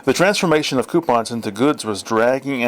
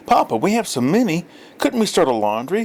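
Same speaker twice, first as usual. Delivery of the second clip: put-on child's eager question; 6 semitones higher than usual. A narrator's reading. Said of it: "Filippetto asked".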